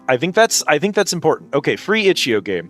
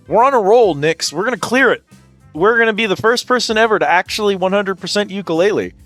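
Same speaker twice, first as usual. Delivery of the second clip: excited; 5 semitones higher than usual. Real, not acted. Hyped about clearing the quiz.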